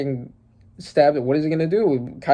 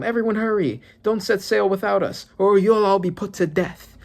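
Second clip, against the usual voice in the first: lightly voiced haughty noble, higher; hint of an arrogant command; Celestial Dragon; 7 semitones higher than usual. Celestial Dragon ordering Marines, lightly haughty higher voice. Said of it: "talking to some Marines".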